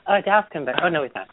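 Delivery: high, quick giddy voice; excited self-quote. Retold or imitated. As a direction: squeal it like excited gossip. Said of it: "every week I've been like".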